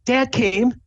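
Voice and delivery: high-pitched, frantic mom voice; excited mom. Acted. Mom announces Dad came along, excited mom voice. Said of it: "she's waving at you frantically".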